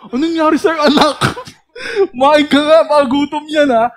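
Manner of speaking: high, loud fussing mother; mother's voice. Retold or imitated. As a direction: fuss over the kid like a worried mom. Mother voiced asking child. (boses ng nag-aalalang nanay)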